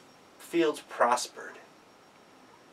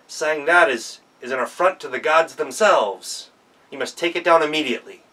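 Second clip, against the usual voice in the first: louder, indignant official's rebuke; stern scolding; 6 dB louder than usual. Acted. Mandarin rebukes Li Chin at her gate, loud and indignant.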